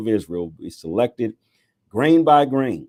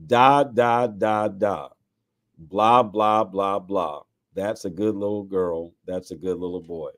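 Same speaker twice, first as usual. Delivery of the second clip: mock baby talk; slower than usual. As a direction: coo condescendingly, one syllable at a time. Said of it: "address them in baby talk".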